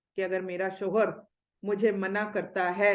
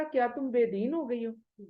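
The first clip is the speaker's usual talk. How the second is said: calmly. Retold or imitated. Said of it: "اتنے آرام سے کہتی ہیں".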